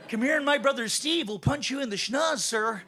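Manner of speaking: lightly hammed Canadian threat; mock-tough but polite Canadian; Canadian accent. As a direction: harmless Canadian fighting talk. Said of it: "It totally sucks to sound like this".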